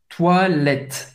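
"toilette" ending on T, the E barely there; near-silent final E. Shown as a demonstration. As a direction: finish "toilette" at the T, E and S unspoken. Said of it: "o E é bem discreto, até mudo". ("toilette" com E final mudo, acabando no T)

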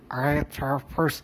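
"Red Harvest" said slowly, r barely sounded; can't roll the r. Real, not acted. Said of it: "susah banget cadel".

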